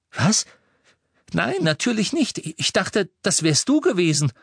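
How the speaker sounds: put-on lively teenage boy voice; Ron's voice. A narrator's reading. Ron voiced in story. (höhere Jungenstimme für Ron)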